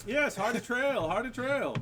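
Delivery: silly clown. Acted. Clown repeats name, slow high.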